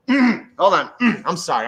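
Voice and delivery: throat clearing, hoarse. Real, not acted. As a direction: clear the throat mid-speech. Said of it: "let me clear my voice".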